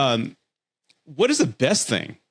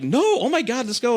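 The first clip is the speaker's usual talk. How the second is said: squealing mock girl voice, much higher; imitating excited date; 12 semitones higher than usual. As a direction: gush like a thrilled teen going to prom. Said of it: "She's like".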